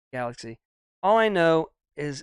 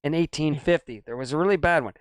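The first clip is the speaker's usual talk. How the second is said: winded from talking fast; breathless, running out of air; out of breath. Real, not acted. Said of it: "I'm getting winded".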